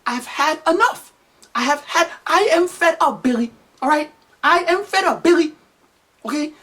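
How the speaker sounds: high-pitched, exasperated mom imitation; mock end-of-tether pleading; upset mother. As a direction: work up to a warning as a fed-up mother. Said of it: "His mother was upset".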